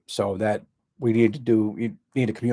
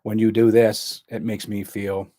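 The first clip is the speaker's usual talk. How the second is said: firm assertive statement; 4 dB louder, slower than usual. Shown as a demonstration. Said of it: "put your emotion into that".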